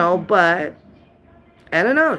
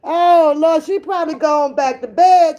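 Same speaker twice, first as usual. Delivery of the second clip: ordinary talk, nothing marked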